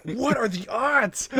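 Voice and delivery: high, drawn-out comic incredulity; exaggerated exasperation, slow and high-pitched; mock disbelief. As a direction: stretch it out high, laughing at the coincidence. Mocking a character's exasperated disbelief.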